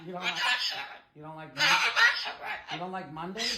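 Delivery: laughing through a teasing question. Real, not acted. Owner teasing her parrot about Mondays, laughing. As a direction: giggle as you ask it.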